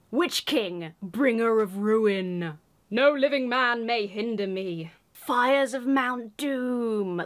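slow, dramatic Witch King reading; ominous reading. Acted. Announcing the Witch King card dramatically. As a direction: intone it like a dark herald.

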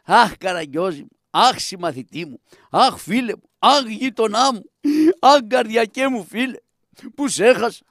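mock wailing for a dead friend; demonstrated mourning lament. Shown as a demonstration. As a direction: lament in separate cries, each Αχ leaning out. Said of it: "θα με κλαις, δεν είναι δύσκολο, θα πεις".

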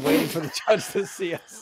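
chuckling through the words; laughing while telling it. Real, not acted. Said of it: "tell the story without laughing".

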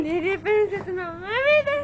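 high, tearful mimicry; mock-crying idol congratulations. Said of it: "一番似てる".

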